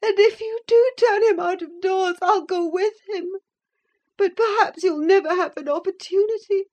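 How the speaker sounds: high tearful threat; sobbing. A narrator's reading. Catherine weeping and defying her brother, high. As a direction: speak high through bitter tears. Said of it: "beginning to sob bitterly".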